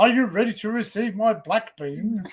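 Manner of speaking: hammed-up theatrical question; pompous orator playing it for laughs; mock declamation. Joking to friends with a meme parody, mock declamation.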